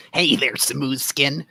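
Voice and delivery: slow hissing reptile voice; lizard voice. Acted. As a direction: purr it like a sly lizard. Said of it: "I like to do the lizard voice".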